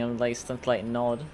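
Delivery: sleepy, mid-yawn. Real, not acted. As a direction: talk through a yawn. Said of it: "I'm yawning too".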